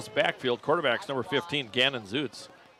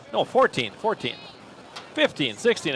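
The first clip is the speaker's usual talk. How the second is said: auctioneer; 6 semitones higher than usual. Real, not acted. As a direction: rattle numbers like an auctioneer. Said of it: "I sound like an auctioneer up here".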